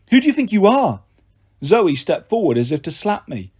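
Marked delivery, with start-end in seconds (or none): 0.1-1.0 high, loud challenge; defiant challenge. Acted. The held-down boy challenges the goddess, high and loud. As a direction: hurl the question at them.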